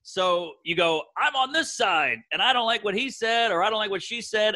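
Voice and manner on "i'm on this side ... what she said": higher-pitched defiant side-picking; worked-up mock partisan. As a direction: act out someone declaring a side. Voicing people picking sides.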